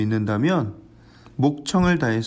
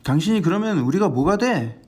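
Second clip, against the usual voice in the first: raised-pitch scolding of the beggar; scolding crowd; 4 semitones higher than usual. Acted. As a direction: hush him up, irritated. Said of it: "사람들이 그를 꾸짖습니다". (시끄럽다고 맹인을 꾸짖는 높은 목소리)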